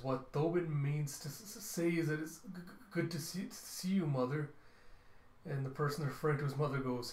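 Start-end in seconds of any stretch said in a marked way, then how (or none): 0.0-4.5 stuttering nervous son. Acted. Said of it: "And one says".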